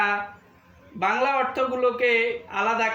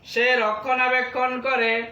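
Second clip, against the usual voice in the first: slow, measured word drill for pupils; teacher reciting Arabic words and meanings; vocabulary drill; much slower than usual. Shown as a demonstration. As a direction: say each word slowly for students to repeat.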